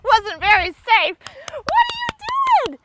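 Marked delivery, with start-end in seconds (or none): 1.5-2.8 amused surprise. Real, not acted. Dog does odd jump.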